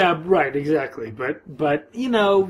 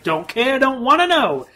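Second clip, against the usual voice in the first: put-on dismissive old woman; 9 semitones higher, 6 dB louder than usual. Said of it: "She's like".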